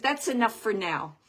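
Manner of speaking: firm enough-for-now; loud firm cutoff. Retold or imitated. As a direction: shut it down firmly. Medium repeats husband's cutoff louder.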